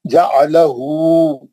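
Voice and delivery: touch the fatha lightly in जालहु; quick short vowel. Shown as a demonstration. Teacher shows students quick reading, unstretched. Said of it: "जल्दी पढ़ना उसको".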